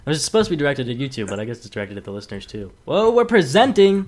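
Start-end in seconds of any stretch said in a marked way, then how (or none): 2.8-4.1 loud, slow, excited whoa. Real, not acted. Host cheering as the wheel starts, loud and slow.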